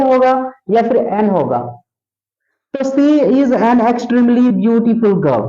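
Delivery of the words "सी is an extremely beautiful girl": slow dictation. Shown as a demonstration. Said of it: "teacher reads the sentence aloud".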